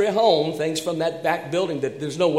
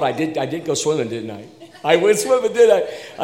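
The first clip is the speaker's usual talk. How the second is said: laughing; 4 dB louder than usual. Real, not acted. Laughing at own mishap.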